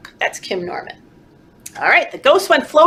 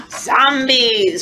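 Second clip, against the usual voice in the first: mock gasp. Page reveal gasp.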